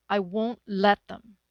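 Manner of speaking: determined. Acted. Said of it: "she said determinedly".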